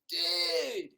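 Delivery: shouted stoner greeting; loud stoner. Acted. Stoner hailing a friend, shouting. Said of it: "apart from really loud".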